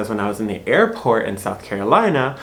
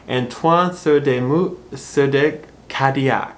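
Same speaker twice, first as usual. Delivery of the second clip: French name attempt; 2 semitones higher, slower than usual. Shown as a demonstration. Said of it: "read his name to make sure I pronounce it right".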